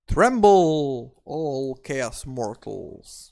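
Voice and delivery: booming mock-villain proclamation, first word loudest; slow, drawn-out playful threat to mortals. Host hyping a killer troll to chaos players, mock threat.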